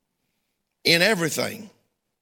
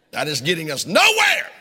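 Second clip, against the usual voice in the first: firm scolding; 2 semitones lower than usual. Retold or imitated. Telling crying woman off.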